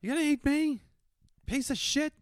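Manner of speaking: very high squawking parrot; angry parrot. Pretend. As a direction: snap back as a furious parrot. Parrot retorts to spider.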